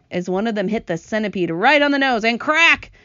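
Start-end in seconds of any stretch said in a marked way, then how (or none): 2.4-2.9 loud, sudden crack; cracking sound effect. A narrator's reading. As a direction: make the word sound like an impact. Imitates second hailstone hit.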